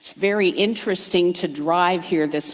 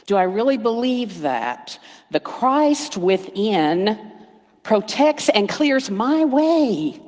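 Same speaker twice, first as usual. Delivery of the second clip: inner doubting question; 2 semitones higher, slower than usual. Shown as a demonstration. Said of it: "Just go inside and say".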